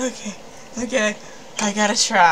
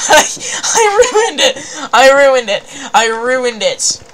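mock wailing; 5 semitones higher, 7 dB louder than usual. Gamer lamenting a botched intense moment, mock wailing. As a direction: wail it out in exaggerated despair.

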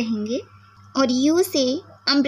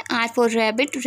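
"O for orange" very slow, each word drawn out; slow phonics drill; much slower than usual. Shown as a demonstration. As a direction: spell it out slowly for small children. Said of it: "र की sound इससे निकलती है". (धीमे-धीमे बच्चों को सिखाते हुए)

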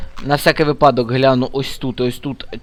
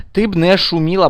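"Ти" pushed up, firmer and louder; louder repeat; 4 semitones higher than usual. Real, not acted. Gamer scolding the noisy girl in game, firmer and louder. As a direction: insist again, raising the voice on "ти".

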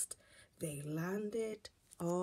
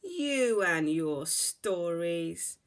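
laughing; 3 semitones lower, 7 dB louder, slower than usual. Acted. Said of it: "Missus Bear laughed".

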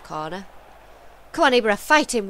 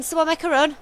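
louder urging call; 8 semitones higher, 4 dB louder, faster than usual. Real, not acted. Gamer urging his team, calling louder. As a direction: pitch up, louder, pressing the team. Repeats louder, more urgent.

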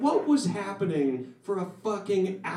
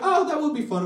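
keen audience member; 8 semitones higher, 3 dB louder, faster than usual. Acted. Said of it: "There's some people like".

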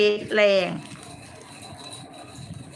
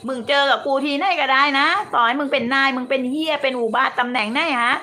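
real anger, louder, swearing hard; angry tirade; 3 dB louder than usual. Real, not acted. To a critic who screenshotted her, a furious swearing rant.

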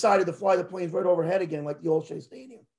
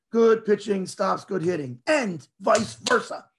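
slow, deliberate quoting of a saying; emphatic quote; slower than usual. Retold or imitated. Fan revealing the forgotten half of a quote, emphatic. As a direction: spell the saying out slowly, landing the ending.

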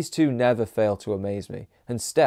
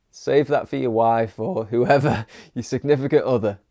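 voice cracking. Real, not acted. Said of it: "I'm having voice cracks galore in this".

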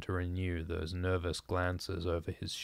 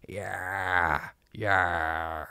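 blood-curdling scream; 4 dB louder than usual. Acted. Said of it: "blood-curdling scream".

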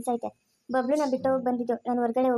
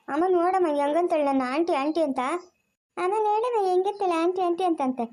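higher-pitched, mock-aggrieved tattling; tattling complaint; 4 semitones higher than usual. Daughter complains to mother about being called auntie, tattling. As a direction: appeal to mother like a teased child.

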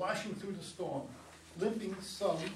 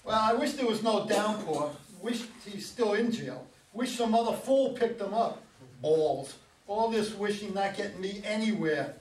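louder, fed-up grumbling to himself; exasperated; 2 semitones higher, 6 dB louder than usual. Acted. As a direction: vent your frustration to yourself. Dan's frustrated inner wishing.

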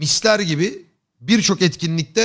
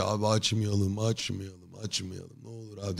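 fading to a much softer plea; pleading friend; 6 semitones lower, 13 dB quieter than usual. Retold or imitated. Mert begging the streamer not to go live, fading soft plea. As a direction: imitate a tired friend begging, fading softer each time.

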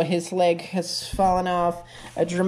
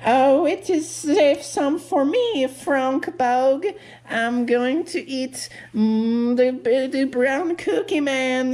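higher, bouncy little bug voice; excited bug voice; 4 semitones higher than usual. Acted. The bug tells Frankie their plans, excited. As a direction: chatter like an eager bug.

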